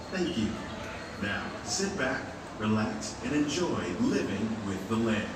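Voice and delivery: airport announcement. Real, not acted. Recorded boat ride safety spiel.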